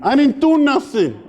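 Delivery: put-on whiny kid. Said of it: "I looked at him and said".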